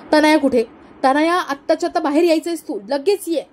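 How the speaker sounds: angry summons. Acted. Mother-in-law shouting for her daughter-in-law in anger. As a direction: yell for her to come out now.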